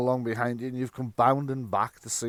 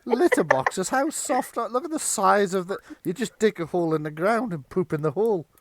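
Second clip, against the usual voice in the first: scoffing feral cat; 7 semitones higher than usual. Acted.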